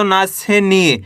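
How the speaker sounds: long falling ee in नी; drawn-out syllable. Shown as a demonstration. Teacher adding the long vowel to ना, नी drawn out. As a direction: stretch नी at the end. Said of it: "बड़ी का उच्चारण जोड़ना है".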